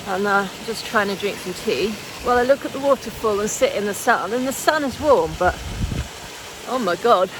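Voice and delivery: teeth chattering, shivering voice; shaking with cold. Real, not acted. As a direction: keep shivering as you talk. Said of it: "I literally can't stop shaking".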